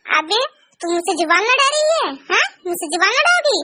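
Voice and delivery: mock furious mother-in-law threatening the daughter-in-law. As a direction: threaten to drag her out by the hair. सास धमकाती है. (गुस्से में धमकाती सास)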